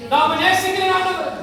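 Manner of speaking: earnest prayer plea. Acted. Preacher voicing a weeping believer's prayer to God, earnest pleading.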